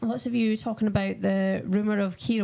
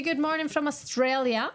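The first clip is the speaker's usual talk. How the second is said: put-on playful, higher-pitched Australian accent; 5 semitones higher than usual. Commentator greeting a viewer from Australia, playful Australian accent. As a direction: slip into a mock Aussie twang. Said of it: "stop doing my accent".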